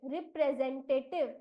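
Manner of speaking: रिप्रेजेंटेटिव as री-प्रे-जेन-टे-टिव; pronunciation demo. Shown as a demonstration. Teacher reveals option A, रिप्रेजेंटेटिव pronounced carefully with ज. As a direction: model रिप्रेजेंटेटिव clearly, with a ज sound. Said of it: "इस शब्द का उच्चारण हम करेंगे".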